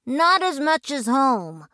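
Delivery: lightly voiced boys.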